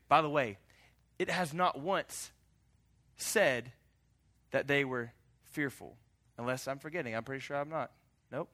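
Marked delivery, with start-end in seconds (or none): none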